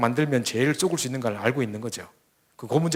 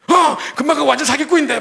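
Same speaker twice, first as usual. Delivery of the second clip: much higher, louder laughing outburst; laughing disbelief; 12 semitones higher, 8 dB louder than usual. Retold or imitated. Daughter reacting to mother: high, loud laughing shock. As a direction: laugh it out, he's a total con. Daughter recognizes the swindler's name.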